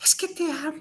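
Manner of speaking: halting, broken-up delivery. Speaker imitates two teenagers speaking to each other, mock faltering, broken voice. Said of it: "con voz entrecortada se dicen".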